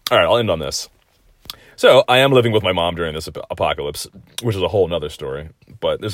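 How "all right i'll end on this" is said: whisper. Real, not acted. Whispered aside after drinking.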